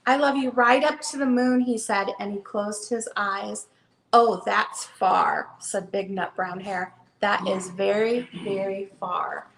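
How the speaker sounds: gentle storybook read-aloud; reading to children. Acted. Seller reads the hare book to viewers, storytelling voice. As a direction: read it like bedtime for a little one.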